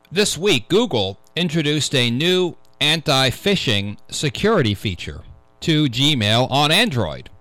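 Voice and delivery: measured radio news-reader delivery. Real, not acted. Host reading a security news item to radio listeners, news read. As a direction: read the tech story out deliberately, phrase by phrase.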